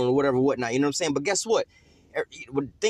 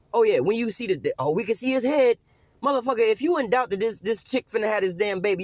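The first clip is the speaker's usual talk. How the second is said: heated preaching; 5 semitones higher than usual. Acted. Preaching at full force.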